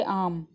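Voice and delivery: आम with a long a and no r; silent r. Shown as a demonstration. Teacher shows how arm sounds as आम. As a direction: say आम, letting the r fall silent. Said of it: "लेकिन इसको हम बोलेंगे आम".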